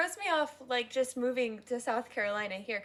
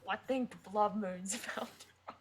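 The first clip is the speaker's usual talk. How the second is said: soft echo of broad Australian; imitated Australian accent; 4 dB quieter than usual. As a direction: mimic the Australian character quietly. Friend echoes the Australian character line.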